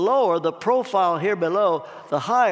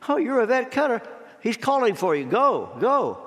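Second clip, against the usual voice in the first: eager, raised-pitch prompting; urging her on; 5 semitones higher than usual. Acted. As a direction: nudge her to go up right now. Someone urges the lady forward.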